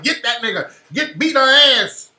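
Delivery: imitated egging-on. Host voicing a crowd urging a fight on, mock egging-on yell. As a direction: play an onlooker cheering on a fight.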